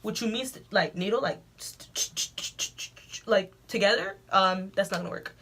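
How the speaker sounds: a light imitation of a scared kid stumbling over words; mock scared stammer. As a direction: stammer over the word stitches. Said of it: "I'm scared of needles".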